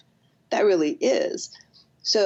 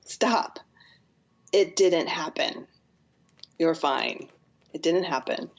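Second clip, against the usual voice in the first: calm reassurance; slower than usual. Shown as a demonstration. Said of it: "the first thing I have to do is go".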